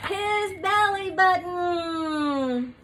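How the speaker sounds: big reveal. Acted. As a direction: land the punchline. Punchline reveal.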